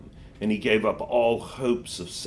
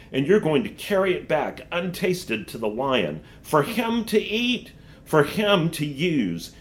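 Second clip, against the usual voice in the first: higher, coaxing witch; 4 semitones higher than usual. Acted. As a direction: tempt him like a sly witch. Witch tempts the boy.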